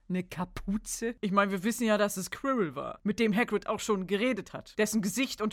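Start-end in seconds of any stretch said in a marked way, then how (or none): 0.1-1.2 slow, doubtful question; incredulous echo. Acted. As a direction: repeat it slowly, disbelieving.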